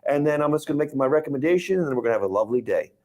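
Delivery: easy, fast friendly pitch; relaxed and reassuring. Retold or imitated. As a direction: lull the client, beach vibe. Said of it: "You come off as like".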